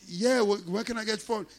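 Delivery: high, loud question, mock broken English. Customer asking driver for his phone, mock loud.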